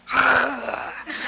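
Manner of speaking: imitating a growling dog; mock dog growl at a cranky husband. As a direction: growl back like an angry dog, half playful. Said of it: "I just started growling back like a dog".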